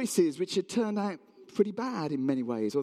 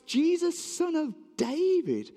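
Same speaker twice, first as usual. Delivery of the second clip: high, stretched call; shouting out; 10 semitones higher, slower than usual. Acted. Bartimaeus gets up and calls to Jesus, high shout. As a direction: call the name out over a crowd. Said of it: "gets up and shouts".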